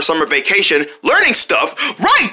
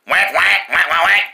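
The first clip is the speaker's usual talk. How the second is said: duck quack; 3 semitones lower than usual. Acted. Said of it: "What about this one".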